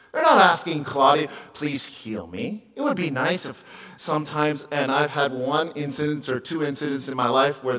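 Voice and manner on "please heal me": soft slow plea. Retold or imitated. Imagined plea to Claudia.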